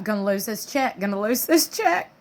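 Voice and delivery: mock sob rising into a high wail; hammed-up tearful self-pity, climbing high; mock crying. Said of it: "I believe she told herself".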